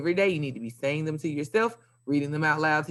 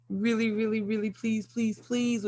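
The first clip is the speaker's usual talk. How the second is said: high, pleading really please; begging the class to finish by Friday; 6 semitones higher than usual. Real, not acted. Teacher pleading to finish iStation.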